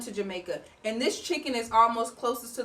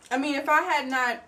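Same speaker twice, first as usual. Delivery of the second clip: talking with food in mouth; mouth full; 4 semitones higher than usual. Real, not acted. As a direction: speak through a mouthful. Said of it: "excuse me for talking with my mouth".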